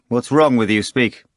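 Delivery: impatient repeated demand; insistent repeat. A narrator's reading. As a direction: push harder on "wrong" the second time. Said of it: "Pilate repeated".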